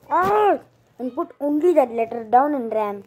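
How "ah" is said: a short high yelled ah; startled shout. Retold or imitated. Postman drops the odd letter and runs, a startled high ah. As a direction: let out a quick alarmed ah, pitched up. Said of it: "shout, shouted".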